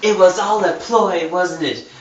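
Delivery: a light camp villain taunting the hero; campy villain voice. Acted. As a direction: sneer it at him, lingering. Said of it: "turn on my super fag voice for Steve".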